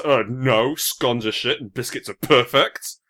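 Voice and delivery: slow mock outrage; hammed-up biscuit defender; mock indignant American. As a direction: insist like an offended online purist, drawn out. Imitating Americans arguing about biscuits.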